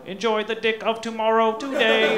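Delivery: high, loud fifties robot voice. Acted. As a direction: announce it like an old sci-fi robot. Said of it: "that was more of a fifties robot voice".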